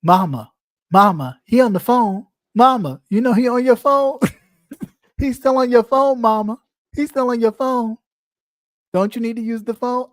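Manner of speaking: put-on high, loud, pestering child tattling to mom; nagging little kid calling mama; whiny kid voice. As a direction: whine it like a kid telling on someone. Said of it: "was she said".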